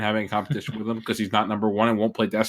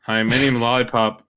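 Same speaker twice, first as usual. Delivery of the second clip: impression of Lollipop; slower than usual. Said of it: "impression of me".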